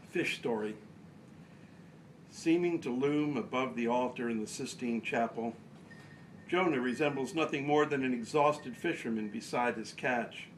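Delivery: measured recital in short phrases, pauses between; poetry reading. Acted. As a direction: read the poem out line by line, deliberately. Reads own poem aloud.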